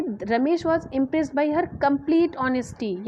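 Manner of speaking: slow, "complete" weighted; stress on complete. Shown as a demonstration. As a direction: lean on "complete". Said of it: "कंप्लीट पे वो फेक- focus किया जा रहा है".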